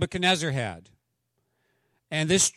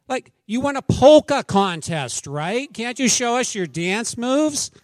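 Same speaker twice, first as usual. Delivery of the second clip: high, bright mock-eager asking; wife eagerly asking for a show; eager request; 8 semitones higher, 8 dB louder, slower than usual. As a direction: coax him like an excited hostess. Pastor's wife's eager question.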